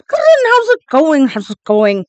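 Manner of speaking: hammy ferry captain. Acted. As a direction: sing out a friendly hello from the boat. GM voices ferry captain greeting.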